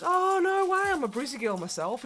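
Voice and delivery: high, excited reunion voice; thrilled mock squeal. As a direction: gush like a fellow Aussie. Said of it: "And I was like".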